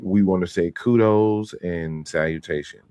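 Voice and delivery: slow, stiff press reporter; lightly voiced stiff reporter; formal reporter voice. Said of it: "'Cause they had to be like".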